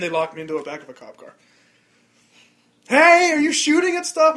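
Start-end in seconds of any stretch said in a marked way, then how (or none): 2.9-4.3 loud, high demand from a cop; mock cop shout. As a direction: bark it at the suspect. Cop challenging him.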